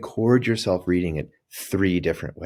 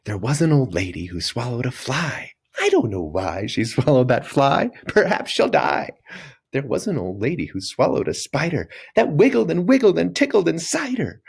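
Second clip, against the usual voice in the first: playful, bouncy, higher silly reading; 5 semitones higher than usual. Shown as a demonstration. Teacher reading the poem to kids in a silly, fun way. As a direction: smile and make it fun. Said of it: "read it in a silly way".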